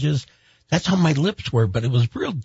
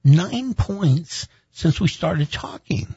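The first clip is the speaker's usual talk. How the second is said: alarmed doctor; 9 semitones higher, 4 dB quieter, slower than usual. Retold or imitated.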